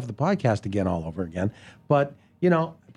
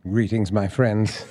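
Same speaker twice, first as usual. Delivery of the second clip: booming arrogant alien overlord; 6 semitones lower, much slower than usual. Retold or imitated. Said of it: "And then you said".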